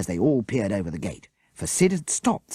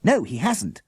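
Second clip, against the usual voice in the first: raised excited yell; 8 semitones higher, 4 dB louder than usual. A narrator's reading. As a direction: shout to be heard. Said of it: "Morgan yelled".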